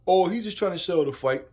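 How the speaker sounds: loud mock voice of the doubters; mocking the critics. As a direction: throw the excuse out loud, mocking. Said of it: "what people would say".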